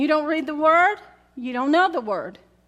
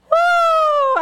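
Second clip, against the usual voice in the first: woo; 12 semitones higher, 5 dB louder than usual. Retold or imitated. Exclaiming about reading Judges.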